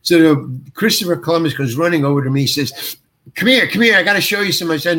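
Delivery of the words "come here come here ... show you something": imitating an eager director, raised pitch; mildly excited, urgent beckoning; eager summons. Director runs over to fetch the actor, eager.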